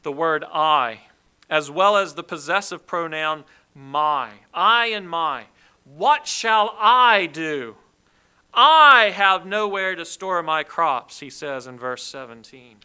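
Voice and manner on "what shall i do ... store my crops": slow, loud fretting of the rich man; loud anxious rich man. Acted. Preacher voicing the rich farmer's worry, slow and loud. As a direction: boom out his worried question.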